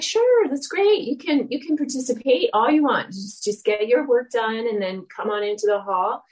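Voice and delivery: a hint of a kind teacher, happy to let her in; cheery teacher. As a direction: lightly voice the kind teacher saying yes. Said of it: "she was like".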